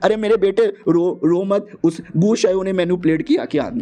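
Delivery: a lightly voiced doting father, over-the-top concern; mild mock fatherly fuss; fussing dad. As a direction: coo over the son like a dramatic dad. Father fusses over crying son.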